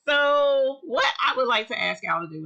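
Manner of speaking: high, loud, laughing request. Real, not acted. Asking viewers for a favor, laughing. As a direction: giggle through the ask for a favor.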